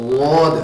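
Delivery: ضاد voiced heavy from the tongue edge; letter demo. Shown as a demonstration. Teacher modelling the dad letter for students, firm. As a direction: sound ضاد firmly against the molars. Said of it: "اسے ہمارے داڑوں کو لگانا ہے".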